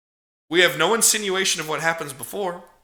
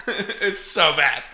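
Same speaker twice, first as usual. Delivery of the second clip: slowed down, laughing through it; slower than usual. Real, not acted. Host reviewing a bad movie, laughing. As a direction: laugh it out, amused disbelief.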